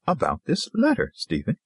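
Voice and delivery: mildly patient prompting, high then falling; patient reply that lifts high, then settles. A narrator's reading. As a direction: patiently spell it out for a husband. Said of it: "She said patiently to him".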